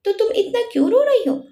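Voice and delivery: narrated gentle concern, understated; lovingly. A narrator's reading. Arijit asks crying Chanchal what is wrong, lovingly. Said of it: "फिर प्यार से बोला".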